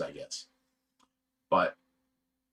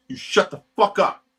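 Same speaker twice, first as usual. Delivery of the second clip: pitched-up furious repeat; shouting down the guy a second time; angry shout, higher; 6 semitones higher, 5 dB louder than usual. Retold or imitated. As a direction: hit it again, louder and higher. Retold yelling at the guy.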